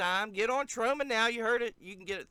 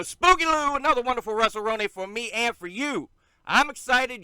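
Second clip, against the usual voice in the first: calmer, lightly raised retake of the host intro; Spooky Lou voice; 5 semitones higher, 6 dB louder than usual. Acted. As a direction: redo the Spooky Lou intro, a bit more controlled. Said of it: "that's the worst intro I've ever done".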